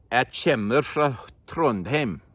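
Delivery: "Jeg kommer fra Trondheim" in a northern Trøndelag dialect, slowed and sing-song; how someone from up north says it. Shown as a demonstration. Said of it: "it's more like".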